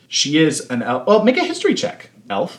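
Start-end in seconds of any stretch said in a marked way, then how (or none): 1.1-2.6 mock dwarf disdain spitting out elf; a hint of a scornful dwarf; Gimli-style gruff dwarf. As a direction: sneer the word elf like a grumpy dwarf. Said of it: "It's very Gimli of me".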